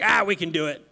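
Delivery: lightly voiced gruff buddy; a hint of a hearty can-do guy; Matt's man talk. Pastor imitates Matt offering help, lightly gruff man talk. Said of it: "I always have to talk like that when I talk to Matt".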